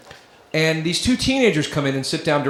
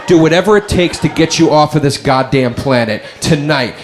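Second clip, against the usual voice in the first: louder mock-furious tirade; comic rant; 3 dB louder than usual. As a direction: rage at him, hammed-up.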